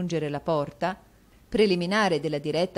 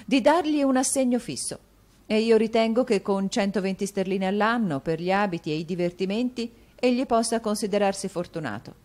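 higher, louder wife's resolve; Madame Mantalini, firm; 5 semitones higher, 5 dB louder than usual. A narrator's reading. Wife announcing her decision, firm. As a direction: lay down the law to her husband.

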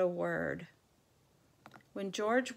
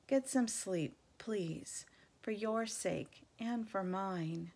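gentle plea; slower than usual. Acted. Dog begging his friend to sleep, gentle and slow. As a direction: urge him to rest, kindly. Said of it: "Bob says gently".

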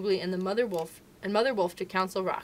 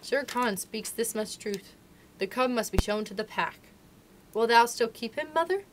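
grave; 2 semitones higher than usual. Acted. Father Wolf gravely asking his mate about the cub. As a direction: speak gravely to your mate. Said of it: "said to her gravely".

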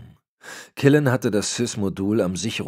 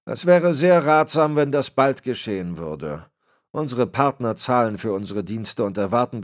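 lightly voiced stern old man, higher and louder; disappointed superior laying down the law; a hint of a menacing patriarch; Berlitz, cold old boss; 6 semitones higher, 6 dB louder than usual. Berlitz demands results.

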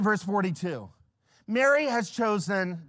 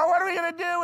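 mock fretting; 12 semitones higher, 6 dB louder, much faster than usual. Host fretting over messy house.

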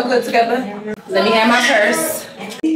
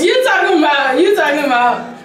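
higher mocking echo of him; mock imitation; 5 semitones higher than usual. Girlfriend mimicking her boyfriend in a higher voice. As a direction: echo his words, mocking. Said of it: "mocking him".

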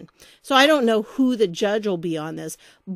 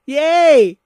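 sarcastic little cheer; 4 semitones higher, 9 dB louder than usual. Real, not acted. Cheering the lawsuit's wording.

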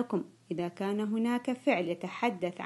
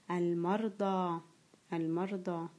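slow, carefully drawn-out dictation word; teacher dictating a word, slow and clear; 3 semitones lower, 4 dB quieter than usual. Shown as a demonstration. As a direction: read each sound out slowly for pupils. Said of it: "سوف أنطق الكلمة".

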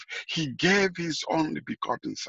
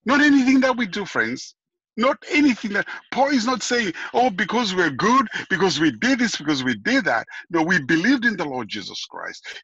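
high, loud and insistent, hammering each phrase; fervent preaching shout; 5 semitones higher, 4 dB louder than usual. Acted. Preacher to his congregation, rejecting salvation by works, raised high and loud. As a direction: cry out the denial like a revival preacher.

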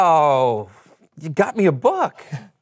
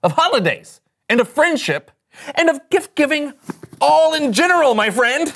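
exaggerated cartoon intonation; 5 semitones higher than usual. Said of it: "Why are you talking like that?".

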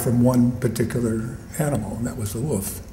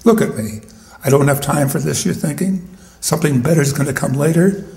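dog persona. Acted. Shelby the dog lectures people, lightly voiced dog. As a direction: talk as a wry, fed-up dog. Dog narrator speaks poem.

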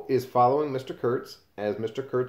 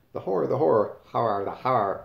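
louder, dramatic "The horror, the horror"; creepy last words; 5 dB louder than usual. Shown as a demonstration. Teacher repeats Kurtz's last words for the class, louder and creepier. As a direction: ham up "The horror, the horror" with a falling, ominous tone. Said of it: "cryptic and kind of creepy thing to say".

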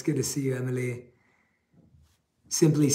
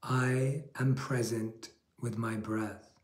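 slow, calm affirmation for listeners to repeat; 2 semitones lower, 6 dB quieter, slower than usual. Shown as a demonstration. Monk leading a repeat-after-me affirmation, slow and calm. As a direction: say it slowly, like a mantra. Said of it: "Repeat after me".

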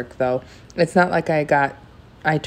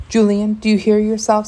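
higher pitched incredulous rebuke; reproving; 6 semitones higher, 3 dB louder than usual. A narrator's reading. Dad rebukes son for blaming mom, reproving. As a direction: challenge him with mild exasperation, pitch raised.

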